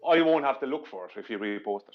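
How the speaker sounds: dry sarcastic aside with a laugh. Acted. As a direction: say it tongue in cheek. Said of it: "I'm being sarcastic when I'm saying".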